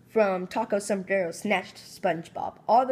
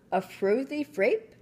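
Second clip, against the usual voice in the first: slow, eager silly guess; dopey friend guessing wildly; goofy guessing Patrick; 3 semitones higher, slower than usual. Acted. Patrick guesses what SpongeBob got, slow and goofy.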